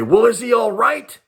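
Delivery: lightly voiced mom calling out; worried mother. Mother's worried call from house.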